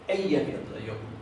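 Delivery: "Eyjafjallajökull" as "ey-ya-fyat-la-yo-kutl"; Icelandic pronunciation. Shown as a demonstration. Teacher showing how the volcano "Eyjafjallajökull" is pronounced in Icelandic. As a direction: say "Eyjafjallajökull" with double L as "tl", first syllable stressed. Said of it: "Eso se pronuncia".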